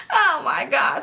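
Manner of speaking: high mock wail; mock crying. Retelling her failed try at crying, mock wailing. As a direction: fake sob of exasperation. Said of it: "just trying to cry".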